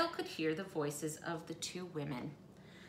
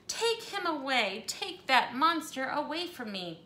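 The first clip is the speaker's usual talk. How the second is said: higher, louder frightened plea; shrieking in fright; 6 semitones higher, 4 dB louder than usual. Acted. Missus Hipple terrified of the crocodile, mock shriek. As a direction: push the monster away with your voice. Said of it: "Missus Hipple began to shriek".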